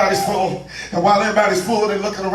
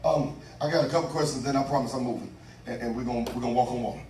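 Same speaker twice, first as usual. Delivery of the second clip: low, soft housekeeping aside; quiet aside; 7 semitones lower, 11 dB quieter, faster than usual. Real, not acted. Preacher promises congregation he's moving, quiet aside. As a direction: drop the preaching voice right down.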